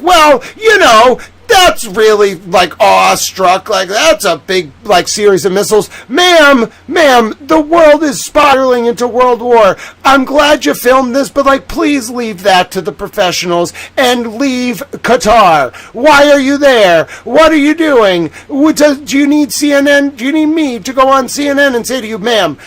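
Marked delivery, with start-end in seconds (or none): 0.0-5.9 mocking the clueless. Streamer mocking citizens who just film the attack, in a loud mock-dazed voice. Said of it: "sitting there being like". 6.1-21.5 loud, higher pleading yell at the woman on screen; exasperated shouting. Real, not acted. Streamer yelling at the woman filming in Qatar, loud and exasperated.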